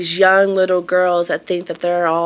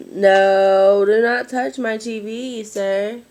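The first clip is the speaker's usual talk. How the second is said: scolding; 4 semitones higher, 4 dB louder, much slower than usual. Real, not acted. Scolding her son.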